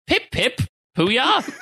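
high hammed-up British cheer; a jokey British exclamation; mock posh British. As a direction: toss it off like a silly Brit, pitched high. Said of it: "doing our Night Angel impressions".

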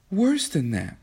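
high, tearful and broken. A narrator's reading. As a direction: choke out the words. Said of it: "she muttered brokenly".

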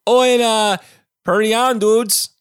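high, loud hammed-up dude; surfer dude voice. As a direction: ham up a goofy movie dude. Echoes the dude catchphrase.

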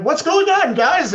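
casual greeting. Acted. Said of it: "I'll be running up like".

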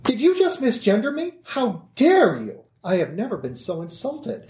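hammed-up indignation, voice soaring; shaking with anger. Character outraged at being misgendered.

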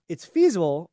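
ordinary talk

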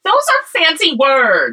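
mock-fancy singsong. Teasing mock-posh remark.

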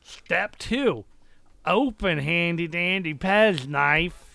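NPC voice. Acted. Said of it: "my N P C voices".

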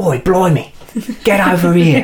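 high, loud fake cockney English accent; asked to mimic an American faking cockney English; American doing English. Shown as a demonstration. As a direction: ham up a Yank's idea of a London accent. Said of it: "Can you do an American doing an English accent?".

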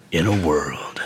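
whispered trailer voiceover; breathy, dramatic trailer narrator; movie trailer voice. Shown as a demonstration. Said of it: "movie trailer voiceovers".

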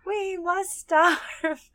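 high, very slow whining creature; Smeagol voice. Retold or imitated. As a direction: drag it out like Smeagol. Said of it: "I love the".

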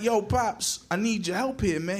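lightly voiced boy asking for backup; pleading kid. Boy asks Pops for help, mildly pleading.

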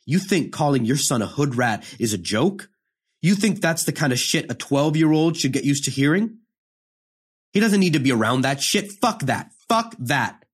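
retold furious mother, mild mock shout; yelling mother. Mother yelling back at father on the phone, mild mock fury. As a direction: throw it back at him, heated. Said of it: "They was yelling some foul shit".

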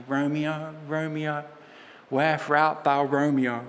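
a playful hint of a lovesick Juliet; mock Juliet. Preacher jokingly quoting Juliet to her congregation, lightly hammed-up. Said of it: "Well, I'm kidding".

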